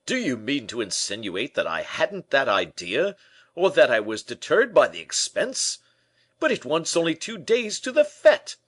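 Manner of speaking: a vain, put-out gentleman lamenting his wardrobe; Porthos, aggrieved. A narrator's reading.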